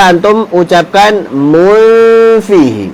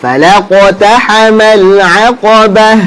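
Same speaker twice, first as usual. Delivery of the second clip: Quran recitation. Shown as a demonstration. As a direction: recite for students to repeat, holding the long vowels. Recites Quran for class to repeat.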